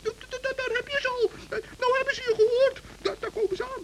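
hushed, stammering mock panic; stammering fright. Gnome faking fear to scare the fox, stammering. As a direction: stutter as if terrified.

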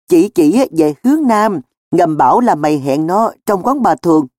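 earnest, excuse-making protest; explaining himself. Acted. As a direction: justify yourself, pleading your case. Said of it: "Cường gãi cổ phân trần".

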